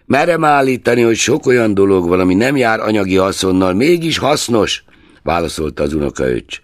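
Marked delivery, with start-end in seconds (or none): 0.1-4.8 a lightly voiced eager nephew, pleading his case; hint of an idealistic nephew, heartfelt; earnest young nephew. A narrator's reading. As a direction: argue warmly for Christmas as the young nephew.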